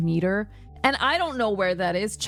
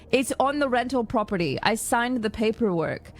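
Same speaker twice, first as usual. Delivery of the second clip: raised-pitch, emphatic pleading of a case; retold insistent protest; 3 semitones higher than usual. Caller insisting to the agent they live there, exasperated. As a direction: re-enact an exasperated, point-by-point argument. Acts out arguing with power company.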